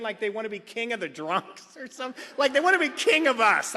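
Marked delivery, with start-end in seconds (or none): 2.4-3.7 mocking. Mocking the peacocks.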